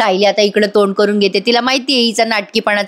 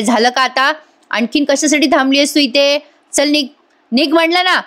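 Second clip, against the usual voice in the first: rising to a higher, sharp "get out"; angry dismissal; 5 semitones higher than usual. Retold or imitated. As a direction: throw her out of the house. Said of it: "Sayali म्हणते". (रागाने "निघ" म्हणत हाकलणे)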